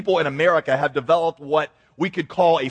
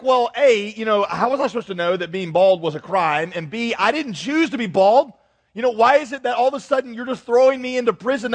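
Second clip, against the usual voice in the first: lightly acted indignant objection, pitched up; mock protest; 5 semitones higher than usual. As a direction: argue your case in mild mock outrage. Acted protest of a condemned bald man.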